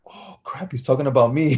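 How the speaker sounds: whispered start, then voice returns; imitated dawning dread. Kid realizing the coach means him, whispered dread. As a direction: act out a kid's hushed realization, whisper into voice.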